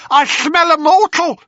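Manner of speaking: high, loud crone shriek; shrieking hag. Acted. Blind hag sniffing out Perseus, high loud shriek. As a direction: screech it like a witch scenting prey. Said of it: "she shrieked".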